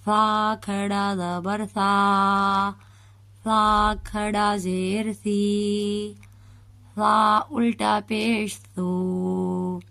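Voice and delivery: slow spelling with سا soft, tongue between the teeth; soft lisped sa spelling. Shown as a demonstration. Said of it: "سا کو ہم بالکل نرمی سے پڑھیں گے". (زبان دانتوں کے درمیان رکھ کر نرمی سے)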